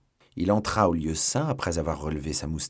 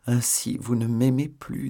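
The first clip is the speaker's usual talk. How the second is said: slow sad reproach; 4 semitones higher than usual. Acted. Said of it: "dit lentement et tristement".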